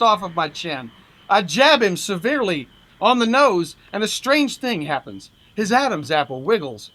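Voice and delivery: animated first-person fight-story narration; comic story reading. A narrator's reading. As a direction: read it like a wry boxing yarn. Reads humorous story aloud.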